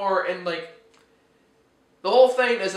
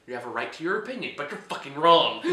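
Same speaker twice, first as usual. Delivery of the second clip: mock polite retort; 4 semitones lower than usual. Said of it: "I was like".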